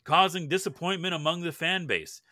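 steady newsreader delivery; news read. Acted. Reads the news segment.

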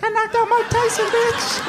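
high-pitched, hammed-up boast; imitated bragging brother. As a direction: crow it like a triumphant kid.

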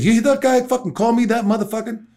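high, indignant demand; imitating a furious man's question; retold angry Roosevelt. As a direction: voice up, outraged at being insulted. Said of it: "Jeff, I'm fucking angry".

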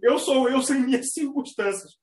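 slowed, self-satisfied declaration; a lightly voiced smug Capricorn, slowly; slow proud Capricorn motto. Imitating a Capricorn who thinks he needs no one, slow and proud. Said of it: "É Capricórnio mesmo".

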